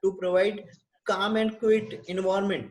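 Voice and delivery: very slow, each word separated; slow dictation. Shown as a demonstration. Teacher dictating sponge bath to the class, very slow. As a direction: give them time to write every word. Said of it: "teacher dictating care plan".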